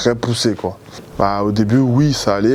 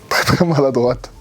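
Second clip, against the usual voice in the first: laughing; 3 semitones higher than usual. Real, not acted. Laughing about clumsy friend.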